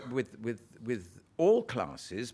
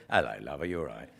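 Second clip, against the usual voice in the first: plain local greeting; 9 semitones lower, faster than usual. Retold or imitated. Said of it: "I can't say".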